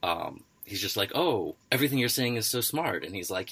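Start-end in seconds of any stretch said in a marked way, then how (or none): 1.1-3.0 higher-pitched, agreeable yes-man gush; lightly hammed-up flattery; mock fawning. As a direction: imitate an admiring study partner who never argues. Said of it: "he doesn't fight with him".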